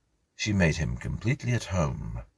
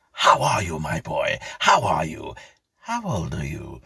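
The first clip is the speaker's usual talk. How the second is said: put-on eager old squire; 5 dB louder than usual. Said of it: "rubbing his hands with delight".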